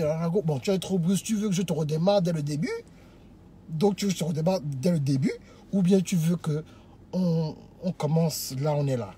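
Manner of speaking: low, measured suitor demo; calm negotiating. Shown as a demonstration. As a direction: offer to start over without any pressure. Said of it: "Tu lui parles tranquillement".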